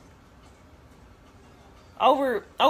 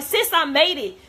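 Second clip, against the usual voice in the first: higher imitation of an excited friend; retold excitement; 4 semitones higher, 3 dB louder than usual. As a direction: share the news with mild retold excitement. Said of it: "She was so excited".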